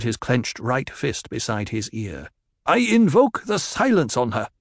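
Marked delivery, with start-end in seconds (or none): 2.7-4.5 fearful invocation. Acted. Frightened warrior invoking ritual.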